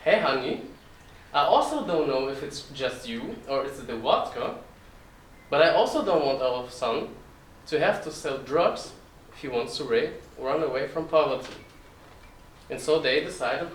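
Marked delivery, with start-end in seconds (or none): 0.0-11.5 put-on Russian-accented mom replying, with swooping intonation; mother's Russian accent. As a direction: echo the husband as a Russian-accented wife, less forceful. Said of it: "And then my mother replied".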